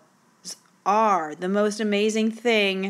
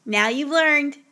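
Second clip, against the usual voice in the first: higher and louder, smug mock student; 6 semitones higher, 4 dB louder, slower than usual. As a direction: play the know-it-all essay writer. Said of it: "he talks like this".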